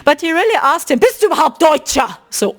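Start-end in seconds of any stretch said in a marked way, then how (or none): 1.0-2.2 mild mock-aggressive demand; imitated aggression. Retelling the man questioning Marcel's German, imitated aggression. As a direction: act out a stranger's challenge. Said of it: "he was so aggressive".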